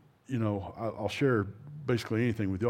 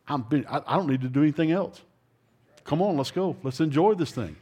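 lightly voiced God, higher-pitched and eager; rally them with a raised voice; urging God; 4 semitones higher, 3 dB louder than usual. God urging a believer to come on, mildly excited.

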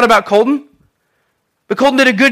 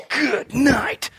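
laughing exclaim; 3 semitones higher, 7 dB quieter than usual. Retold or imitated. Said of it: "I'm sitting there going".

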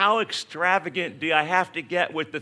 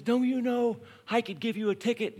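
higher, stern lecturing police officer; fuming cop; 7 semitones higher than usual. Retold or imitated. Cop scolding a speeding driver, stern and higher.

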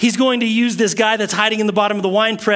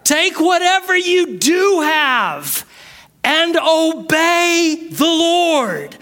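preaching shout; 9 semitones higher, much slower than usual. Real, not acted. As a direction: hammer the point home. Preaching at full force.

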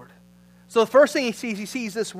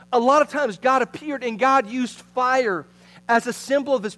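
higher, louder preacher delivery; driving sermon voice, pitched up; energetic preaching; 6 semitones higher, 7 dB louder than usual. Real, not acted.

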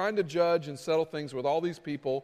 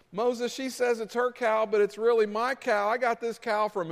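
higher-pitched petty complainer; complaining villager; 4 semitones higher than usual. Acted. Villager disputing a cow before Moses, higher-pitched complaint. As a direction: plead a petty case in a raised pitch.

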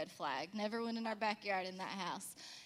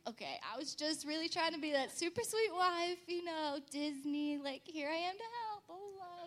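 mock sweet wife; 6 semitones higher than usual. Self-mocking sweet wife excuse.

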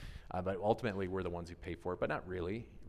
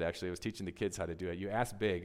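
normal talking voice

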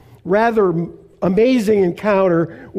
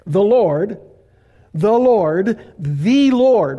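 building proclamation; 3 dB louder, much slower than usual. Acted. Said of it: "now listen to this".

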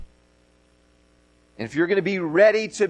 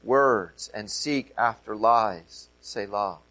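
measured, solemn reading of a psalm; scripture reading; 4 semitones lower than usual. Acted. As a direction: read it like Scripture from the pulpit. Reads Psalm aloud.

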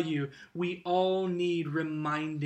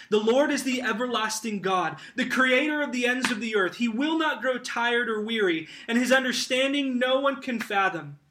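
lifted, emphatic preaching voice; declarative scripture reading; 4 semitones higher, 3 dB louder, faster than usual. Acted. Preacher proclaiming the everlasting God, lifted and emphatic. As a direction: proclaim it to the congregation.

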